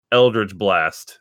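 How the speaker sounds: slow, low spell-casting call; spell incantation. Acted. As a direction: intone the spell name slowly. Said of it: "And he goes".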